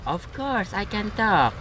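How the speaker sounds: high-pitched talking-gun voice; Rev. Pretend. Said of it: "Why are you talking like that".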